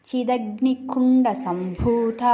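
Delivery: సంభూత with a breathy aspirated bha. Shown as a demonstration. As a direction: push air on the భూ of సంభూత. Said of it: "బూకు వత్తుంది".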